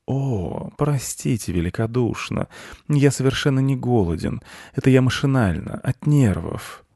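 high, polite cat voice; embarrassed apology. A narrator's reading. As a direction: apologize with delicate courtesy. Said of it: "смущённо стоял ухоженный". (смущённое вежливое извинение)

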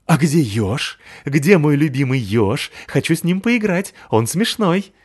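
high, excited big puppy; eager dog voice. Acted. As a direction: ask for your favourite toy. Пёс ищет ежа. (нетерпеливый щенок)

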